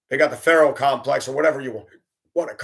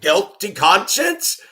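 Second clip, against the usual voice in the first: teasing; 5 semitones higher, slower than usual. Retold or imitated. Driver teases the startled kid.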